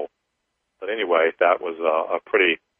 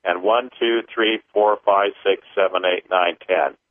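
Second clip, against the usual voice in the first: paced counting; 2 semitones higher than usual. Acted. Leads a clearing count.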